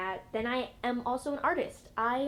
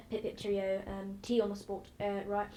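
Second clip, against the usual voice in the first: light mock-British pip-cheerio; a soft, hammed-up British toff accent; 2 semitones lower, 4 dB quieter than usual. Shown as a demonstration. Listing accents, she lightly puts on British. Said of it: "Then I can also go into British".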